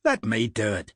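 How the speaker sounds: put-on burly man offering help in an Irish accent; easy Irish lilt, steady. Harper offers to take over the digging, Irish accent. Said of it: "spoke in an Irish accent".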